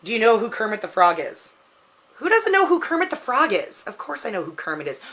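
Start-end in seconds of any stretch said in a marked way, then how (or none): 2.2-3.8 much higher, playful disbelief; teasing outrage; mock incredulous. Real, not acted. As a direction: act like the question is absurd. Answers an obvious question.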